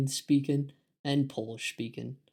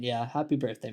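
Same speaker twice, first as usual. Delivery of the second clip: usual speaking voice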